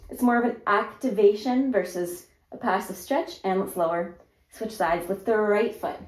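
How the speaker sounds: talking face down into the floor. Real, not acted. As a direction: speak with your face to the mat. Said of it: "So I'm talking to the floor".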